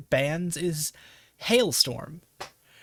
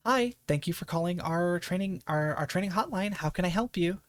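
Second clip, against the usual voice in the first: customer service voice. Shown as a demonstration. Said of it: "I do have a customer service voice at work".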